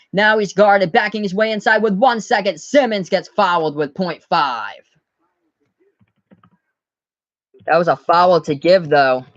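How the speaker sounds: brisk sportscaster calling each possession; live play-by-play. Acted. YouTube host calling the game for viewers, live play-by-play. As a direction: call the action as it happens, like a broadcaster.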